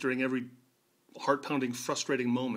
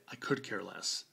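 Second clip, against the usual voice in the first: mocking the wrong phrase; 7 semitones lower, 8 dB quieter, slower than usual. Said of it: "It's exactly the opposite to say".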